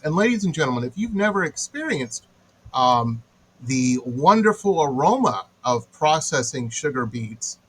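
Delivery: mock-grand announcer-like sarcasm; sarcastic praise with swooping pitch. Real, not acted. Host mock-praising a sugar beet stench to listeners, sarcastic. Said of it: "and I'm being sarcastic".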